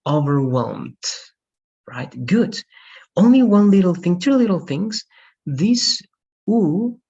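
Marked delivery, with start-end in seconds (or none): 0.1-1.0 "overwhelmed" with a soft m and no "ed" syllable; soft final m. Shown as a demonstration. Teacher shows student how "overwhelmed" ends. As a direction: end "overwhelmed" on a light m-d. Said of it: "As M is soft".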